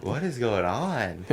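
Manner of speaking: delusional, half awake. Retold or imitated. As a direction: act dazed, just woken up. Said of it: "like, delusional".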